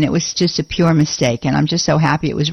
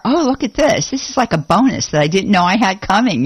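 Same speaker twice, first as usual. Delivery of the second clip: delighted. Retold or imitated. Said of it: "two ways that we can look at it".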